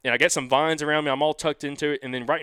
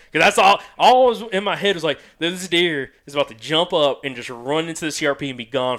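frantic burst; 3 semitones higher, 5 dB louder than usual. Real, not acted. Panicked about losing the deer.

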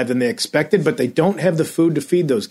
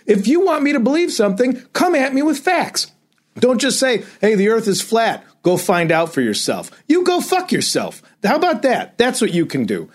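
AM radio host rant; 3 semitones higher than usual. Real, not acted. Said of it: "I'm just turning into, like, an A M radio host right now".

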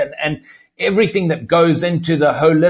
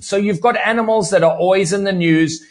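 ordinary talk

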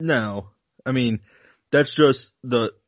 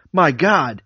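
higher, louder gasp of shock; astonished exclamation; 4 semitones higher, 4 dB louder than usual. Acted. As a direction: blurt it out in awe. Pilot sees strange aircraft.

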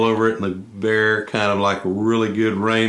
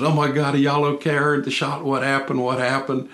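imitating an alarmed friend, higher; a mock-panicked rush of questions, pitched up; 5 semitones higher than usual. Roland runs back after hearing the shot, mock alarmed and pitched up. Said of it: "he goes".

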